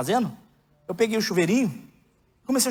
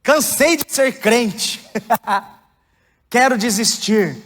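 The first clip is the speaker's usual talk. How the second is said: higher, slow, imitating a despairing plea; desperate prayer; 6 semitones higher, 5 dB louder, much slower than usual. Pastor retells his tearful prayer to God, imitating despair. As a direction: re-enact begging God to let you quit. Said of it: "A minha oração era essa".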